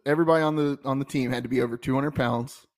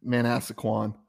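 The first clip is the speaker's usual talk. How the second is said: Southern accent; 3 semitones lower, slower than usual. Shown as a demonstration. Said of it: "in my, in my Southern accent".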